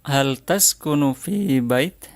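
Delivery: slow model phrase. Shown as a demonstration. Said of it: "ucapkan setelah saya".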